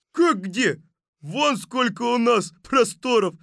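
high, loud tourist's retort; loud objection. Acted. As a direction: call it out from the crowd. Another tourist objects from crowd. (громкий возглас возмущённого туриста)

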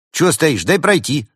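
high, loud impatient demand; exclaiming. A narrator's reading. Cat demands to be let in, exclaiming impatiently. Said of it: "воскликнул Константин".

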